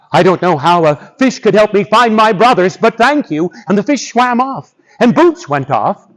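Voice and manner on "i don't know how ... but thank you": slightly raised, puzzled voice; doubtful thanks. Acted. Boots doubts a fish can find his brothers, puzzled. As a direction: thank them politely while unconvinced.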